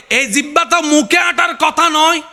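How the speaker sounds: fervent preacher in full cry; impassioned preaching. Acted. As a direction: preach it high and ringing, stretching the phrases. Preaches at high pitch.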